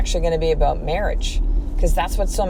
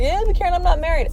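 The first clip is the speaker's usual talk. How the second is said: much higher, whiny protest; mock listener objection; 9 semitones higher, faster than usual. Imitating a single listener objecting to Karen, high and whiny. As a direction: push back in a high, put-upon voice. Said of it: "you're like".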